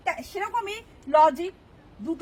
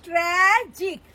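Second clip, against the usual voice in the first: "ট্র্যাজিক" broken in two, ট্র্যা, then জিক; split into syllables; much slower than usual. Shown as a demonstration. Teacher counting syllables for students, "ট্র্যাজিক" split in two. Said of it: "ট্র্যা একটা syllable".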